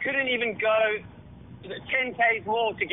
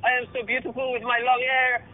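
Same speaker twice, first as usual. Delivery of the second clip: mock French accent; 3 semitones higher than usual. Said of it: "posted on his bloody Instagram going".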